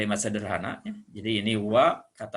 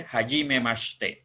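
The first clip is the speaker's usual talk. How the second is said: slow demo phrase; slower than usual. Shown as a demonstration. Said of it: "Ini bahasa Jepangnya ya".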